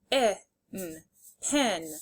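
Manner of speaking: "P, in" as separate sounds, then "pin" whole; sounded out, blended. Shown as a demonstration. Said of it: "say the sounds and then blend".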